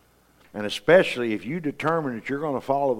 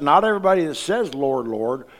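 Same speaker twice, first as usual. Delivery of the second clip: preaching loud; 3 semitones higher, 5 dB louder than usual. Acted. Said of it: "And Jesus said".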